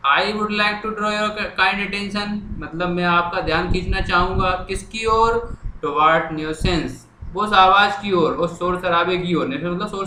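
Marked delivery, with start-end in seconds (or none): 0.1-2.3 very slow, word by word; slow dictation. Shown as a demonstration. Teacher writing the letter on the board, slow dictation. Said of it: "याद भी हो गई भैया". 5.8-6.9 very slow, word by word; slow dictation. Shown as a demonstration. Teacher writing the letter on the board, slow dictation. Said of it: "अब मैं लिखना शुरू कर रहा हूँ".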